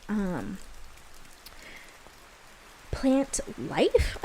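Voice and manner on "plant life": louder, higher, with a swoop on LIFE; oddly emphatic. Real, not acted. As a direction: give it a playful, odd swooping emphasis. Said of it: "wanted to say it like that".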